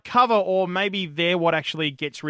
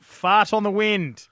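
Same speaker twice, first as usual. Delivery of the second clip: emphatic, relishing; 7 semitones higher, 5 dB louder, slower than usual. Shown as a demonstration. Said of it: "I just love saying that out loud".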